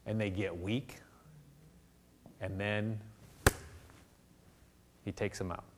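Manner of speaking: whisper. Real, not acted. Preacher drops to hushed warning.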